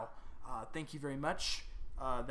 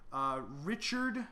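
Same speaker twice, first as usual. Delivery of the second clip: ordinary delivery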